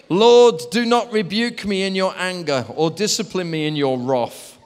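mildly dramatic scripture reading, strong opening; psalm reading. Acted. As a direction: call on the Lord, then read it out. Reads psalm aloud.

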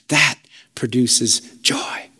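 breathy whispered aside, slow; hushed whisper. Real, not acted. Preacher telling the church what produces joy, whispered. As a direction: drop to a whisper to draw them in.

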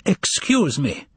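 high, slow, ceremonious address; self-important. A narrator's reading. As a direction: announce yourself with importance, drawing it out. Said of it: "he said with importance".

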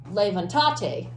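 levantate mis-stressed on the second-to-last syllable; wrongly stressed levantate, weight on TA. Shown as a demonstration. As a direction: say levantate as le-van-TA-te. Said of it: "if you don't have an accent".

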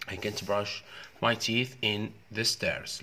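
slow, spaced-out reading; slow teacher model; slow model sentence. Shown as a demonstration. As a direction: read each word slowly. Teacher reading answer sentence slowly.

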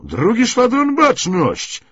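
loud, high parade-ground call; shouted command. Acted. Lieutenant calling the squadron to attention, shouting. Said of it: "komenderuje porucznik".

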